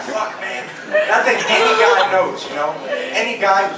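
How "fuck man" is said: frustrated whisper. Retold or imitated.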